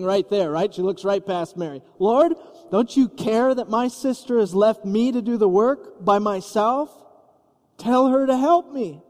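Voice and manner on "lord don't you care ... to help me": mock-exasperated, pitch climbing to the demand; bursting with Martha's fed-up frustration, slowing on "by myself"; exasperated complaint. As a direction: Martha scolding Jesus about her sister, exasperated. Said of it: "so exasperated and infuriated".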